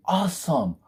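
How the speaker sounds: whispered, dripping sarcasm; sarcastic whisper. Real, not acted. Reviewer whispers sarcastic praise at the film. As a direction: breathe it out with no voice, deadpan.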